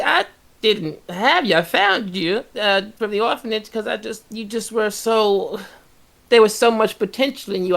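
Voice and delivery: high, sweet hag mother voice. Acted. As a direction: coo like a sinister hag mother.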